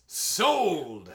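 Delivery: high, loud eager shout; sudden loud eager cry; yelled Sold. Retold or imitated. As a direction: bark it out like a greedy buyer. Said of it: "Immediately yells".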